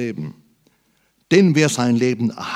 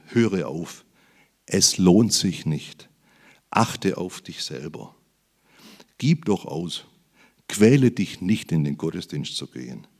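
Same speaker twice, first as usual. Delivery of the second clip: lower, slow coaxing tempter's murmur; Satan's voice; 6 semitones lower than usual. Retold or imitated. Preacher voicing Satan tempting the faithful, low and coaxing. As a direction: whisper it like the devil luring you away. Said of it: "wird der Satan dir einreden".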